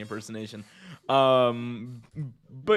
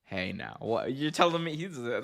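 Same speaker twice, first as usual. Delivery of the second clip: ordinary delivery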